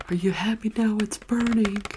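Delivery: breaking the whisper to quote a favorite scene; mock movie shout. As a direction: blurt out the movie line in a hammed-up yell. Quoting a movie line.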